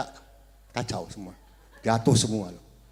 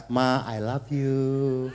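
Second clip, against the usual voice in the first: tender love line; 5 semitones lower, much slower than usual. Shown as a demonstration. Husband hugging his wife, slow tender coo. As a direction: coo it slowly to your wife. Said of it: "peluk dia".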